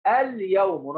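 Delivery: اليوم with the l of "al" clearly pronounced before "yawmu"; sounded lam. Shown as a demonstration. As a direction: let the lam be heard in اليوم. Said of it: "نطقت اللام؟".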